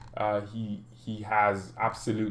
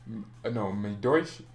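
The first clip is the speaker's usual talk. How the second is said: mock German boast; slower than usual. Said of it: "I do speak German".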